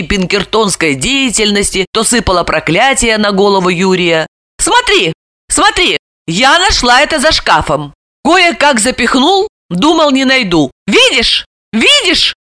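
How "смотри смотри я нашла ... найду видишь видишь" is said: high, raised insistent cry; shouting. A narrator's reading. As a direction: shove the proof at her. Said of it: "кричала она". (кричать, размахивая бельём)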